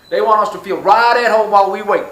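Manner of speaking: teasing Home Affairs in a hammed-up accent; put-on accent. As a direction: slip into a silly put-on accent for a gag. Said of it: "No idea why I did that accent".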